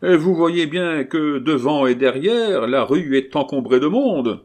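loud, high, slowed-down protest; exasperated carter. A narrator's reading. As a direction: spell it out loudly to a fool. Blocked carter quarrels with crowd.

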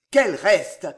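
short anxious question; startled, tense query; gasped alarm. Acted. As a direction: gasp it in mild alarm. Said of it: "haleta Gilles".

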